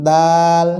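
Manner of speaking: দাল held with an open "aa"; দাল drawn out evenly; natural letter sound. Shown as a demonstration. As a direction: sustain the vowel of দাল, neither thick nor thin. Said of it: "এটি খুব স্বাভাবিক একটি আওয়াজ".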